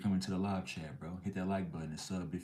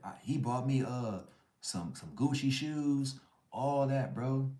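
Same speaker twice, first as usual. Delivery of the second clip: put-on bragging girlfriend; 5 semitones higher than usual.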